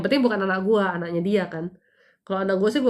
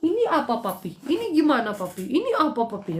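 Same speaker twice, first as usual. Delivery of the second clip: put-on little boys asking; 4 semitones higher than usual. Sons pestering father at 3D printer.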